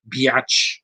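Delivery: sneered mock insult, a put-on voice; mocking taunt. Gloating at an actress he dislikes, a mock taunt. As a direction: toss it off like a playground taunt.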